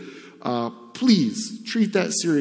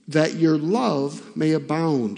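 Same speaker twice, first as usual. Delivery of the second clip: measured reading aloud, phrase by phrase; scripture reading; slower than usual. Acted. Preacher reading Philippians to the congregation, formal scripture reading. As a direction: read the epistle aloud formally.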